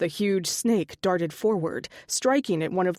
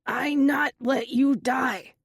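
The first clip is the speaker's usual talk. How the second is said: bellowed; 5 semitones higher, slower than usual. A narrator's reading. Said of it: "Otto bellowed".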